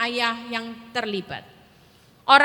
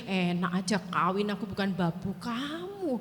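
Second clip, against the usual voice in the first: softer, lower muttered resentment; inner grumble; 6 semitones lower, 7 dB quieter than usual. Retold or imitated. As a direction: grumble it under your breath. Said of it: "dalam hati gini". (menggerutu dalam hati dengan pelan)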